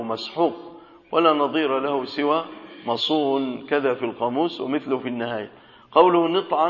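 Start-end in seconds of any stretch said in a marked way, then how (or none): 6.3-6.7 نطعا with an i after the nun, "nit'an"; kasra on the nun. Shown as a demonstration. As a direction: say نطعا as "NIT-'an", short i first. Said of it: "بكسر النون". (نطعًا بكسر النون)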